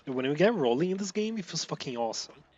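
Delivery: loud and high, buzzing from the race; excited. Real, not acted. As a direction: share the rush of the run. Thrilled by a good run.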